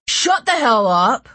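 loud furious yell; angry shout. A narrator's reading. Gunman silencing captives.

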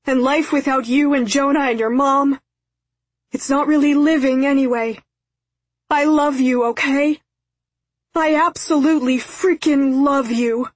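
high, loud, desperate apology; screaming plea. A narrator's reading. Father apologises to daughter up the hill, screaming. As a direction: cry out to her, begging to be believed. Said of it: "again he began screaming".

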